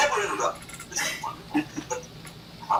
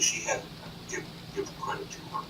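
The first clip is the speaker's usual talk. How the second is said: ordinary talk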